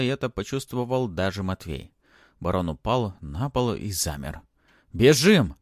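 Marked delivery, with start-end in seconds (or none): 4.9-5.6 high, loud cry to flee; shouting. A narrator's reading. Boy urges friends toward the exit, shouting. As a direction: shout an urgent command. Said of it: "вновь крикнул Матвей".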